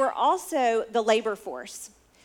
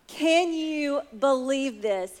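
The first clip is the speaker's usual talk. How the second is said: joyful disbelief; 3 semitones higher, slower than usual. Retold or imitated. Jesus to the crowd, laughing in joyful amazement. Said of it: "He is filled with joy".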